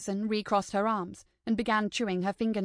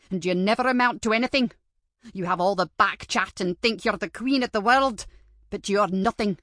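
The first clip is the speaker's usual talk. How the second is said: a lightly voiced stern old teacher, louder, scolding; stern teacher lecture; 5 dB louder than usual. Old teacher berating Madison in her room, scolding. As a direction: scold the girl like a spiteful headmistress.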